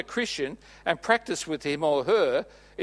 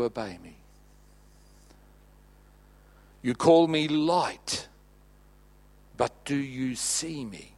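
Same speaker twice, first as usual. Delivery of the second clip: solemn voice of God; 3 semitones lower than usual. Acted. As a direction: speak as God gently rebuking his church. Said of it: "And he says".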